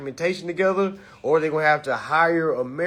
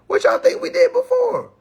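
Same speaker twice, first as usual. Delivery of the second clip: much higher, louder mocking question; bigger mock retort; 4 dB louder than usual. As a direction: push the tease even harder. Repeats the retort after laughing.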